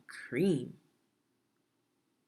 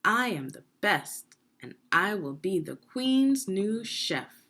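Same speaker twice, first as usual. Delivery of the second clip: mildly proud, louder and higher chorus of chefs; boastful chefs; 4 semitones higher, 5 dB louder than usual. Acted. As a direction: boast a little like every chef thinks they will win. All chefs boasting together.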